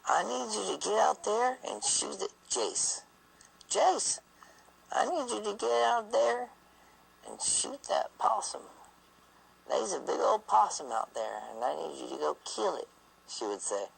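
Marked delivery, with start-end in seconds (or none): 0.1-3.0 put-on high old-lady voice urging a kill; great-grandma voice. Great-grandma begging husband to kill the possum, high and urgent. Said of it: "and she says". 3.7-12.9 high, pleading granny drawl; Southern drawl. Retold or imitated. Great-grandma pleading with grandson to shoot the possum, high drawl. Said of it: "with her drawl".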